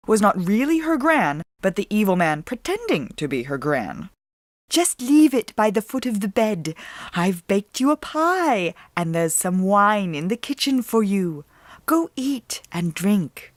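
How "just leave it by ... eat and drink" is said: a man faking a sick grandmother; fake granny. A narrator's reading. Villain in granny disguise.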